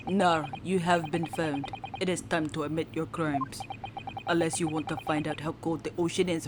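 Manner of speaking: put-on low, soft threat in a Russian accent; attempted Russian accent. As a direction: menace him quietly with a put-on Russian accent. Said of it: "my Russian accent is totally going to be a bust".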